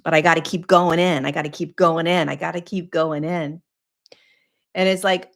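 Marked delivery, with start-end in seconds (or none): 0.0-3.6 quick, insistent repeated phrase; driven repetition. Acted. Seeker convinced they must keep digging, hurried insistence. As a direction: rattle it off like someone who can't stop. Mimics the compulsive inner seeker.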